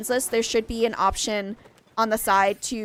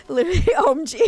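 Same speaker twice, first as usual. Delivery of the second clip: fast, high, giggly "literally, OMG"; laughing hard; 8 semitones higher, 5 dB louder, faster than usual. Real, not acted. Streamer cracking up at her friends, laughing. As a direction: giggle right through the words.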